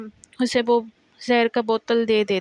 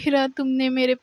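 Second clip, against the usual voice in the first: crying; 4 semitones higher than usual. Retold or imitated. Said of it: "تو وہ ایسے روتی ہے".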